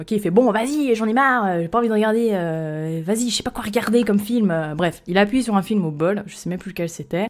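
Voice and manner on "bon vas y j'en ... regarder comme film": play-acted fed-up, annoyed, giving-up tone. Retelling what a date said while choosing a film: imitating someone fed up. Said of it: "ça le saoule".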